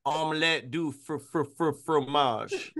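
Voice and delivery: a deliberately bad French stutter. Joining the bit with a cartoon French phrase, mock stammer. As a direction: stammer on "fr-" before "fromage". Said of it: "so bad".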